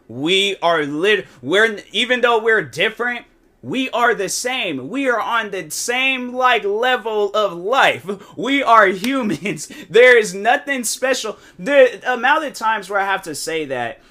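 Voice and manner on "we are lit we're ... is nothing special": slow, raised, word-by-word insistence; emphatic insistence. Retold or imitated. Streamer telling a crazy fan they are equals, emphatic. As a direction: spell it out firmly, stretching each phrase. Pleading with over-excited fans to calm down.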